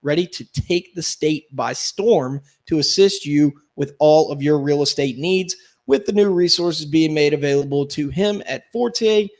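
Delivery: upbeat radio ad read. Acted. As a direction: sell it like a real estate ad. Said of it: "listen to that veteran ad read".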